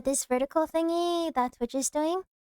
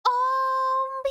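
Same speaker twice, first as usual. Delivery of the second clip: surprised gasp; 10 semitones higher than usual. Real, not acted. Sudden scare on screen.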